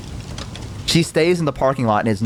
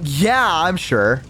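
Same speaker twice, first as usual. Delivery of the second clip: insistent reassurance; 2 semitones higher, much slower than usual. Retold or imitated. Insisting to avoid the ride.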